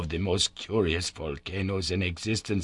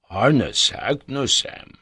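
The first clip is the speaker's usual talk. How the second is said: slow, louder astonished cry of the name; surprised cry; 5 semitones higher, 5 dB louder, much slower than usual. A narrator's reading. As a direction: stretch the name out in disbelief. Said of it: "cried the professor of Reykjavik".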